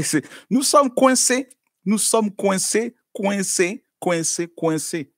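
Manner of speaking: emphatic. Real, not acted. Preacher stressing being stuck.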